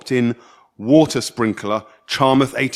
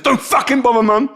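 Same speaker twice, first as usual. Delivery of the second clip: put-on sulky teen snap; 11 semitones higher, 4 dB louder than usual. Angry teen voiced.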